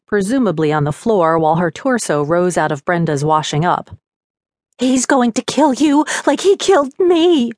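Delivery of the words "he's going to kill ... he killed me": bitter ghostly threat; spat out. A narrator's reading. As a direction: spit every word at her. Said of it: "She spat the words out".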